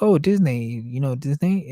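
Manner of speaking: Disney rhyming with "day"; retold mispronunciation. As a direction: casually insist on Disney with a "nay" ending. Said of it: "that's how I would always pronounce it".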